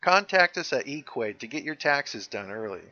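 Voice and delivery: lightly voiced advert read; a hint of ad announcer; tax service ad. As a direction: pitch it like a tax-prep commercial. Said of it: "That sounds like a tax service".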